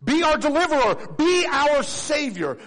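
high loud pleading cry. Acted. Preacher voicing the crowd crying for a savior, loud. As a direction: call out for rescue at full voice. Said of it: "We haven't needed to cry out".

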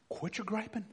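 quit your griping dropped soft; soft command. Shown as a demonstration. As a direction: say it quietly, almost to yourself. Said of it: "repeated command, soft take".

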